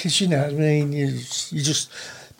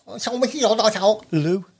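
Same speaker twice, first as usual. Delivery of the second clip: slow; 5 semitones higher, much slower than usual. Real, not acted.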